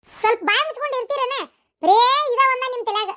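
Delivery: high-pitched, annoyed telling-off; irritated rebuke. Acted. Wife snaps at husband to be quiet.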